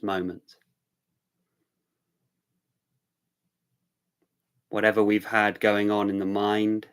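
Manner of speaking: unhurried phrases, leaving long silences between them; guided centering. Real, not acted. Easing arriving viewers into the present moment, meditative.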